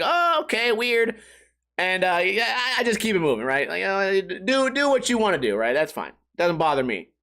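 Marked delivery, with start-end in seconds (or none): 0.0-1.2 mildly weirded out. Retold or imitated. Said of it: "and you're like".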